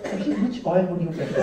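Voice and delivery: soothing masseur. Retold or imitated. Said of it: "he's about to ask".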